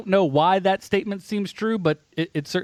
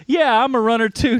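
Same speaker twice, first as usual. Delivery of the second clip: mocking poser voice; 6 semitones higher, 5 dB louder than usual. Mocking poser runner quote.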